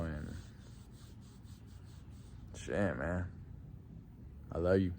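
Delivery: soft, heavy-hearted memorial words; grieving tribute. Real, not acted. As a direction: speak to a lost friend, low. Emotional tribute to late friend.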